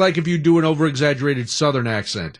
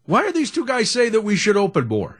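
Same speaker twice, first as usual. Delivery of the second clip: higher-pitched mock indignant grumble; put-on exasperated complaint, pitched up; imagined indignant staff; 5 semitones higher than usual. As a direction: voice an offended front office hearing criticism. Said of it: "is now going".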